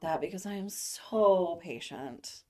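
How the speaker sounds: deadpan sarcasm; sarcastic. Acted. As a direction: say it dry, meaning the opposite. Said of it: "that was sarcasm".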